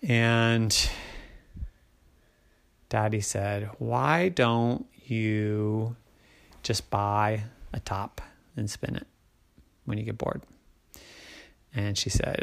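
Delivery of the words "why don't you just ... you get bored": weary dad. A narrator's reading. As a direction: offer it quietly and wearily, pitched down. Weary daddy suggests.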